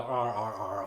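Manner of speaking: low mock zombie groans; zombie noises. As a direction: groan like a lazy movie zombie. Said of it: "all the zombie noises".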